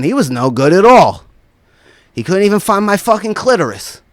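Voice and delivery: imitating a mildly displeased complaint; complain, retelling her disappointment; not too happy. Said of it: "Comes down not too happy".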